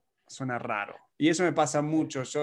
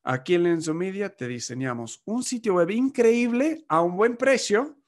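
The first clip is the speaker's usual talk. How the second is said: mock ad pitch. Marketing agency pitching its website service, mock upbeat ad read. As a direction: sell it like a lightly hammed-up agency ad. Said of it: "La agencia de marketing puede decir".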